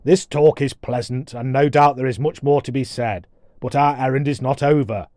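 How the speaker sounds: lightly voiced brusque dwarf; hint of a blustering storybook warrior; impatient dwarf warrior. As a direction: cut in with formal impatience.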